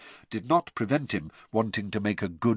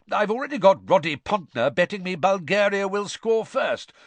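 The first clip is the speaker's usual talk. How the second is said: hearty Bagman voice; 6 semitones higher than usual. Acted. Bagman bragging about the day to Arthur, jovial and excited. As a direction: boom with wild excitement.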